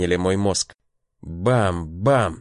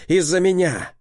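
anguished shout; 8 semitones higher than usual. A narrator's reading. Repeats louder and higher.

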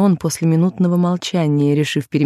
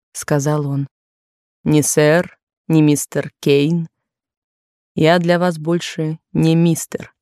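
lightly lowered suitor's voice, pleading; 2 semitones lower than usual. A narrator's reading. Narrator voices Kane.

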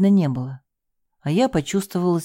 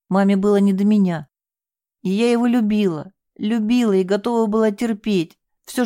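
emotional confession; 4 semitones higher than usual. Acted. Girl's emotional confession continues.

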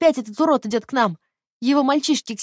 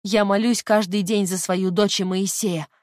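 remorseful; 3 semitones higher, 5 dB louder than usual. Acted. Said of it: "Заплакала она даже под полотенцем".

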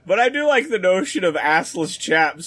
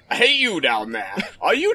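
a put-on British accent calling out. Shown as a demonstration. Co-host tries a British gent calling down, British accent. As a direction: hail someone below in a British accent. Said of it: "I'm trying to do a "Hey you" down there in a British accent".

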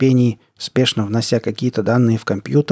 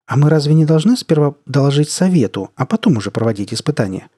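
surprised; 4 semitones higher than usual. Acted. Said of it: "удивилась Натель".

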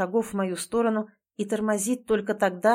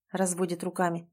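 ordinary delivery

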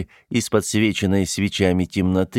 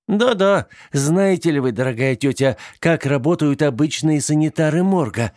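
lively; 7 semitones higher than usual. Acted. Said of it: "оживлённо подхватила Лора".

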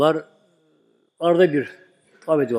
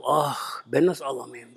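whispered lament; 3 semitones lower, 5 dB quieter, slower than usual. Retold or imitated. Friend weeps with Yusuf.

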